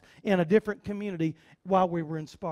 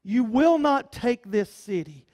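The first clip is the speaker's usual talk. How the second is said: mocking Jebusites; 3 semitones lower, much slower than usual. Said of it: "picture them ... saying".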